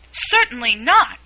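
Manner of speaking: high, loud, offended retort; a prim girl bristling at the question; indignant. A narrator's reading. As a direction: snap it back, insulted. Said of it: "said Alice indignantly".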